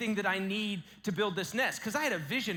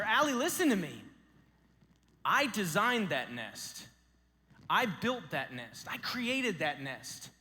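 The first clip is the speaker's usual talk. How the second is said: reassuring father. Retold or imitated. Father reassures crying daughter.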